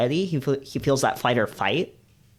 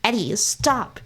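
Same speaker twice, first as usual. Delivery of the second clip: high cry to stop, not much louder; pitched-up, contained shout; yelled plea; 9 semitones higher, slower than usual. A narrator's reading. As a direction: cut in with a mock yell. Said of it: "She yells out loudly".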